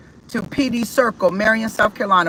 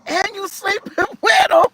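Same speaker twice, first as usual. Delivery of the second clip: accusing; 11 semitones higher than usual. Retold or imitated. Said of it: "He said".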